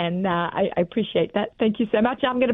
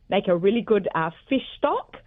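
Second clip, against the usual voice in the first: ordinary talk, nothing marked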